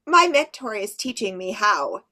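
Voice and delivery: a proud little fairy. Shown as a demonstration. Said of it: "So remember, it's fairies".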